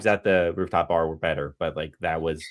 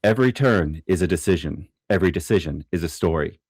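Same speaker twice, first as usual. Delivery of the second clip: lightly dramatic announcer read. Pretend. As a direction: read it like a trailer voiceover. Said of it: "Let me do my announcer voice".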